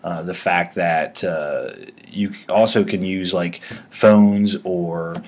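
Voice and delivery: halting, stumbling over words; stammering while filling time; stuttering. Real, not acted. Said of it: "I'm stuttering 'cause I feel like I'm filling time here".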